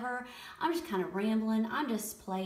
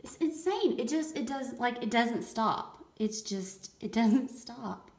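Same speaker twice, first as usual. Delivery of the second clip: thrilled; 4 semitones higher, 4 dB louder than usual. Real, not acted. Colors keep pouring out.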